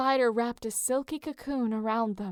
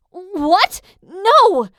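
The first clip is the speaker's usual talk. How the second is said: higher, much louder alarmed cry; protesting shout; 8 semitones higher, 15 dB louder than usual. A narrator's reading. Piper blocks Leo from fetching Jason, shouting. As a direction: stop him cold. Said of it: "Piper protested".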